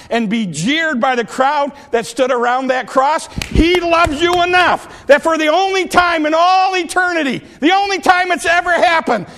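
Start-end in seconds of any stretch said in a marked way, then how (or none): 3.5-9.3 rising sermon shout; preaching shout. Acted. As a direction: lift it up and ring it out to the congregation. Preacher building to climax.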